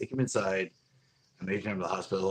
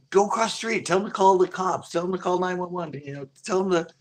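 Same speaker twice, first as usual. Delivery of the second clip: re-enacted urgent call, high and raised; urgent order; 9 semitones higher, 4 dB louder than usual. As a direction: call out urgent instructions as in the retold moment. Retelling himself urging the friend.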